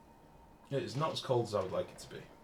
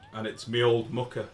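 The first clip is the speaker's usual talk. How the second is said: put-on Brummie accent; 6 dB louder than usual. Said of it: "it would always be".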